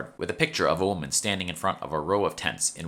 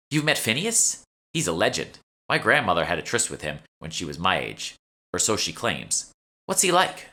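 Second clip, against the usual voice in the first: lightly voiced shopkeeper. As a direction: play the eager young shopkeeper, slightly raised. Nikki asks about Phineas.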